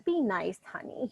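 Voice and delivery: softened, lightly acted coaxing; mock sweet. Stalker coaxing the girl at her door, mock sweet. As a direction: coax with pretend sweetness. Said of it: "He's trying to be so sweet".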